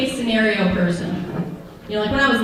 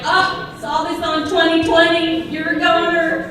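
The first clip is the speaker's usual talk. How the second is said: mom voice; 6 semitones higher than usual. Retold or imitated. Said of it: "She's like".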